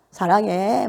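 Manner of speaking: lifted, drawn-out affection; lightly sweetened declaration of love; sound of love. Shown as a demonstration. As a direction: say it with a loving lilt. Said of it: "사랑의 소리를 내는데".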